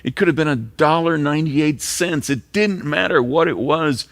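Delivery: high, loud, ringing emphasis; emphatic preaching. Real, not acted. Pastor telling the congregation about fairness, loud and emphatic. Preacher stressing fair treatment.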